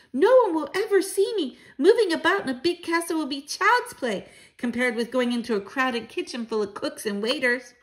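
put-on high, excited boy mouse; eager child. Mouse grandchild boasting of sneaking about, eager. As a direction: pipe up high and confident.

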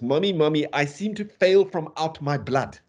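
a light hint of a whining child; baby talk. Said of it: "That's talking like a baby talks".

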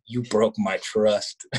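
slow, deadpan wounded line; hammed-up betrayal, drawn out; mock heartbreak. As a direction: lay it on slowly, fake-hurt.

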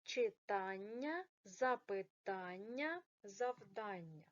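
"запитання", "читання" slow, stress on the "та" syllable; correct stress. Shown as a demonstration. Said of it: "позначте наголос". (повільно, з наголосом на "та": "запитання", "читання")

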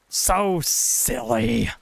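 high, slow, drawn-out teasing; playful mock chiding. Player laughs off the threats, high mock chiding. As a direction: stretch it out high and indulgent. Mock scolding of game enemies.

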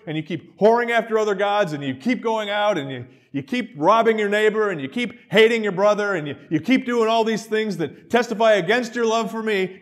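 loud, building accusation; a preacher thundering God's list of sins; preaching God's rebuke. Acted. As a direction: hammer each charge harder. God's rebuke, preached at full force.

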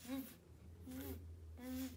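"V" as a buzzed "vvv", not "vee"; phonics V sound. Shown as a demonstration. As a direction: buzz out "V, v, v" as three consonants.

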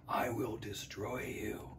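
slow whispered monster threat. A narrator's reading. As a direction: menace it slowly, barely above a breath. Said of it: "said the monster".

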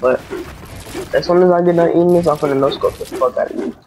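talking while chewing popcorn; munching popcorn. Real, not acted. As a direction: mouth full of popcorn. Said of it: "I'm eating popcorn right now".

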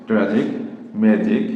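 "ট্র্যাজিক, ম্যাজিক" with g said like English j; soft G. Shown as a demonstration. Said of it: "বর্গীয় জয়ের মতো". ("ট্র্যাজিক, ম্যাজিক"-এ জি-এর উচ্চারণ বর্গীয় জ-এর মতো)

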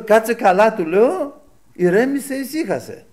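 loud, high-pitched order to calm down; re-enacted heated intervention; retold urgent restraining. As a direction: hold someone back with urgent commands. Retold restraining an angry brother.

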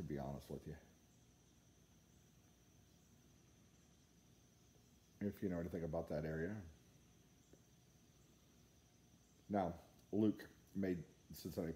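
talking around pipe stem; pipe in mouth. Real, not acted. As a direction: lips closed on stem. Seen 2: Fist holds pipe to lips while talking; smoke drifts past face.

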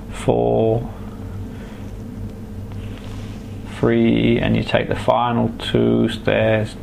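right in your ear. Acted. Hypnotherapist guiding a relaxation trance.

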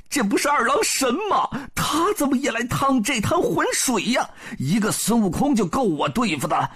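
high, fast frightened babble; terrified nine-headed bird; panicked monster thinking. A narrator's reading. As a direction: gasp out the panic of a cornered demon. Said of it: "他心想".

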